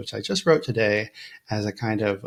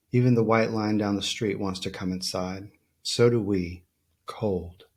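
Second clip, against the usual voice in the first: measured recital with falling line ends; deliberate, even poetry voice; poem reading. Acted. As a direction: read it as spare verse, pausing after each image. Reads a poem aloud.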